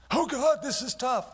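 high whining cry to God; mock whine of an overloaded leader; whiny complaint. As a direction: moan it like a worn-out man. Whining complaint voiced in sermon.

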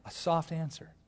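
hushed, gentle phrasing; softened, mild delivery; soft answer. Shown as a demonstration. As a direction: drop the volume to soothe. Demonstrates soft answer after loud retort.

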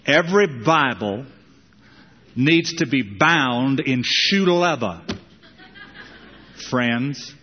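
slow, drawn-out preacher's pronouncement; lightly imitated preacher, slow and emphatic; J. Vernon McGee. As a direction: say it in a cool, deliberate old-preacher way. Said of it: "used to say in his own cool way".

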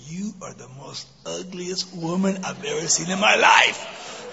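slow, shouted insult from the parrot. Acted. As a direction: bellow it out like a rude parrot. Parrot insults her again.

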